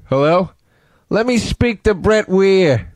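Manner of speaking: lightly put-on phone prankster, demanding; recorded prank-call style. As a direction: do a slow, mildly exaggerated crank caller. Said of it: "I could do the whole call".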